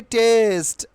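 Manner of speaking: "টেস্ট" as "test", flat single vowel; habitual mispronunciation. Shown as a demonstration. Teacher showing how we usually say it, mistaken pronunciation. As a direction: say "টেস্ট" with hard t and short e glide-free. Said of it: "আমরা কি উচ্চারণ করি?".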